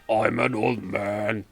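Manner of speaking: lightly voiced old man, slow start; a hint of an elderly man. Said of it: "you want me to mimic an old man?".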